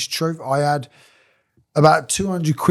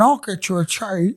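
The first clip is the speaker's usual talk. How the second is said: higher put-on voice; mimicry with a laugh in it; imitating a workmate; 5 semitones higher than usual. Workmate answering a request for tea, imitated high voice. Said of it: "this is how he talks".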